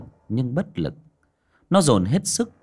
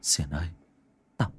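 a touch of frightened stuttering; stammering in fear; faster than usual. Acted. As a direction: stumble over every word, still shaken. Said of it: "miệng lắp bắp".

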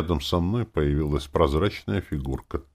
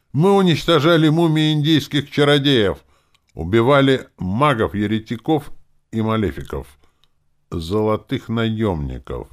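louder and higher, boasting; voice grown strong; 7 semitones higher, 7 dB louder than usual. A narrator's reading. Ghost boasts to the druids of his kills, strong loud voice. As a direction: ghost booms out his deeds. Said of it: "Голос призрака окреп".

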